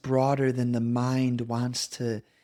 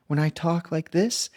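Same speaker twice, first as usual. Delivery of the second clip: one way of talking; 4 semitones higher than usual. Shown as a demonstration. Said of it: "You can hear".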